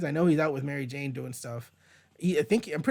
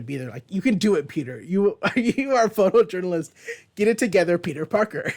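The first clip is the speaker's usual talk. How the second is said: scolding Peter. Retold or imitated. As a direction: tell him off, half laughing. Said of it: "that's just me being a dumbass".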